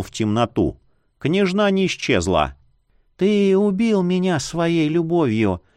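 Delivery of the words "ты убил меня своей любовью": eerie whispery dead princess; rustling ghost voice. A narrator's reading. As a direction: breathe it like a ghost. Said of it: "прошелестел над палубой её голос".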